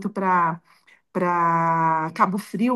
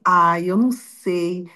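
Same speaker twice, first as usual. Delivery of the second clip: slow, lower, drawn-out hedging; retold hesitation; 4 semitones lower, slower than usual. Doctor hedging to pregnant patient about the name, mock hesitant. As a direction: imitate someone reluctant, stretching it out.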